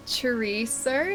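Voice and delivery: chorizo drawn out slowly; careful pronunciation. Shown as a demonstration. Streamer tries chorizo for chat, slow careful pronunciation. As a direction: sound out chorizo at half speed.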